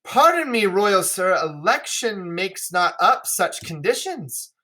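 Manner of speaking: apologetic suitor, lightly acted; Burgundy declining politely. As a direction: begin high, then settle into a formal refusal. Reads Burgundy's reply to the king.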